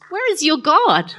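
mock them while laughing; laughing taunt. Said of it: "I could see him doing this".

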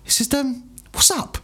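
high slow call through the door; stepdad calling. Retold or imitated. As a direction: lightly mimic the cheery stepdad calling in. Stepdad voiced in story.

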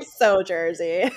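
slow, drawn-out "so Jersey" in a Jersey accent. Shown as a demonstration. Host playing up her own New Jersey accent, slow. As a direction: lean into the Jersey twang on "so Jersey".

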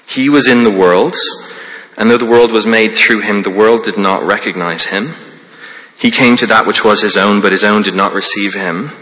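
a measured Bible reading, slightly fuller voice; reading John aloud to the congregation; scripture reading. Acted. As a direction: read the verses as God's word.

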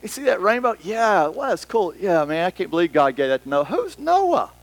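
easygoing, then suddenly puzzled; clueless unchurched person. Retold or imitated. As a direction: imitate someone with no clue. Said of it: "They just don't have a clue".

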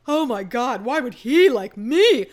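needy, pleading and loud; beggar's mentality. Retold or imitated. A woman mocking a girl who begs for a boy's interest, pleading and loud. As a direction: whine like a desperate beggar. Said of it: "this beggar's mentality of".

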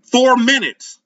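high, loud call down the hall; wife yells time left to back rooms; yelled countdown. A narrator's reading. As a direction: shout it to the back of the house. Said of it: "I yelled".

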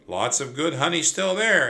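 cheerful smiling offer to the warrior. A narrator's reading. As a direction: beam while offering the honey.

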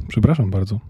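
a small, sheepish sorry; meek apology. Acted. Boy apologises to the elf, meek and sheepish. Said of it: "powiedział potulnie Piotrek".

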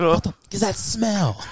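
high-pitched laughing mock shout, ending in a whoop; imitated movie outburst. Imitating a movie scene for a friend, hilarious mock shout. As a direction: quote it in a high voice through laughter. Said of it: "the cameraman went, "Ooh!".

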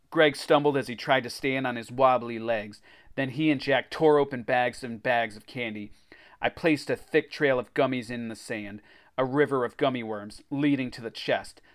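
animated adventure storytelling; story narration. A narrator's reading. Reader tells of racing to the beach, story narration. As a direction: read it like a kids' adventure book.

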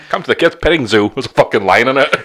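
lightly voiced shady showman; a hint of dodgy circus hustler; sketchy circus barker. Co-host plugging the petting zoo, lightly sketchy barker voice. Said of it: "why they've got that accent".

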